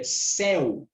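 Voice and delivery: CÉU with a wide open É, drawn out; open vowel. Shown as a demonstration. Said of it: "é um som aberto".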